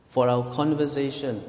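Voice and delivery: measured scripture reading; slow reading. Real, not acted. Reading Philippians to the congregation, slow and deliberate. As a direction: read the verse out deliberately. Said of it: "let me just read slowly".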